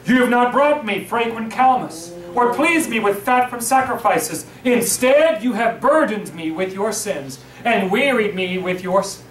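measured reading of the verses; solemn scripture reading. Acted. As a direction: read the verses steadily to the congregation. Reads scripture aloud.

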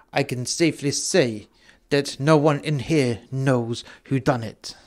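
rough attempt at a Russian accent; amateur, lightly done Russian accent. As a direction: put on a slightly soft Russian accent. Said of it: "You have to excuse my Russian accent".

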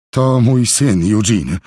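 slow and breathless, gasping between words; out of breath from running; panting. Acted. Levinson, sweating, introduces his son while panting. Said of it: "dysząc".

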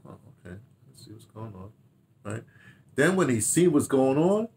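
ordinary talk, nothing marked

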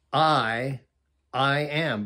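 "I", set apart by a pause, then "I am"; emphatic I AM. Shown as a demonstration. Preacher explains the Greek emphasis, "I" doubled emphatically. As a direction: stress "I" alone, pause, then say "I am" firmly. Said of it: "very emphatic way of saying it".

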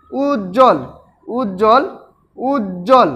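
উজ্জ্বল said as উজ + জল; pronunciation demo. Shown as a demonstration. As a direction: demonstrate উজ্জ্বল with a doubled জ, উজ-জল. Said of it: "উচ্চারণ লিখি কি হবে". (উজ্জ্বল-এর উচ্চারণ উজ-জল)

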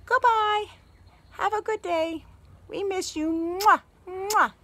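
high, cute puppet-like farewell; bunny saying goodbye. Pretend. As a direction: sign off sweetly as the bunny, with kisses. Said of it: "He says".

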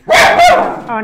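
sudden high, loud exclamation; surprised oh. Real, not acted. To the dogs as a fight breaks out, startled oh. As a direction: caught off guard, a quick high oh.

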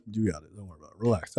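mock-soothing the manager, hushed and low. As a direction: hush him with fake calm. She mocks the manager, soothing.

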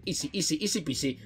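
soft, low little refrain; muttered self-talk. Real, not acted. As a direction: mumble it under your breath. Se lo dice a sí mismo. (cantinela bajita para sí mismo)

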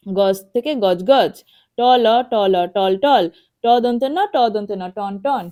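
টল and টন spelt in rhythmic repeats, falling on the whole word; spelling drill. Shown as a demonstration. Teacher leading children in reading, spelling drill. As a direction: chant the letters, then repeat টল, টন. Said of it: "এভাবে পড়তে হবে".

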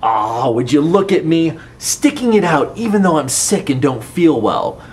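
loud, smug self-praise. Acted. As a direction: pat yourself on the back.

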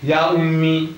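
Ya ummi with Ya leaned on first; opening exclamation. Shown as a demonstration. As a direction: call Ya ummi, stressing the opening Ya. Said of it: "we begin with an exclamation".

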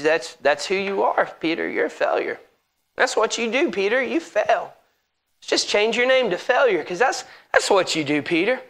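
a hint of a soft, sneering tempter; quietly mock him as the accuser; Satan taunting. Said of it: "Satan's just exploiting".

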